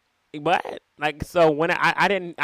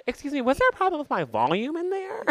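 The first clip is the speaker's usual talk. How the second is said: confronting stranger; 13 semitones higher than usual. Retold or imitated. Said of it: "And I said".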